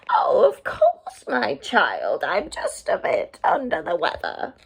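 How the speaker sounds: fake granny voice. Wolf reassuring Red in bed, mock granny voice. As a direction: purr it like a wolf playing grandma.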